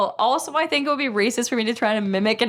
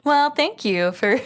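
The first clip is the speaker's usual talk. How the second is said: lightly put-on, slow Siri-like delivery; attempted cool voice; 3 semitones higher, slower than usual. Cohost trying a cool voice for the outro, mildly Siri-like. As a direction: stretch it out like a mock voice assistant. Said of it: "Not Siri".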